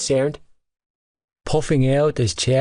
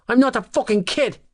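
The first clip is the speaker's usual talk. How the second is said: high cracking furious yell; voice breaking; 13 semitones higher than usual. A narrator's reading. Teen charges at the players, voice cracking with rage. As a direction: scream it as the voice cracks. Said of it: "voice breaking".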